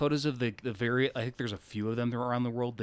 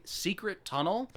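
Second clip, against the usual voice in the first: mock mysterious whisper; 4 semitones higher, 5 dB quieter than usual. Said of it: "And then they also say".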